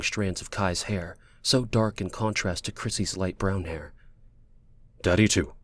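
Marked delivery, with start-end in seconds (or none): 5.0-5.5 low, reluctant concession; reluctant man, falling tone; begrudging. Acted. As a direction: grudgingly agree with the child. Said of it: "Kai would say begrudgingly".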